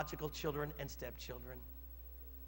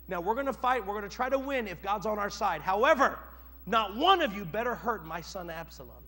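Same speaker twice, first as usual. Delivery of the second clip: stern command; 2 semitones higher, 7 dB louder than usual. Acted. David commanding his men.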